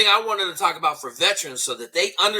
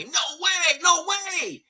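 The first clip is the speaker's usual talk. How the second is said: retold yelling; 11 semitones higher, much slower than usual. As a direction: shout it back like the whole room objecting. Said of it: "everybody started yelling at me".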